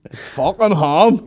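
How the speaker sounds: loud, high, drawn-out mock exasperation; hammed-up parental exasperation; mock exasperated outburst. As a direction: blurt it slowly in comic outrage. Mock parent snapping at child.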